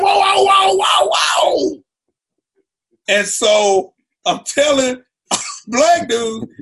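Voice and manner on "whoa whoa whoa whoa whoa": loud, higher whoa to calm her; mock frantic calming shouts. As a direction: hold up hands and shout her down. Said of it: "I'm like".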